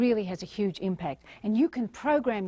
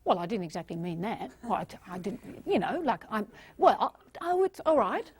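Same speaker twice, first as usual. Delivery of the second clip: put-on backtracking teenager. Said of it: "they go".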